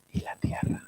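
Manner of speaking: fading unvoiced whisper. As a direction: let the line die into a whisper. Susurra el final del verso. (susurro final apagado)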